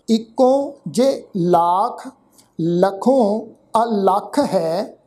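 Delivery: slow, measured verse reading; scripture recitation. Shown as a demonstration. Teacher reciting Gurbani for the congregation, slow and measured. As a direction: recite word by word with held vowels.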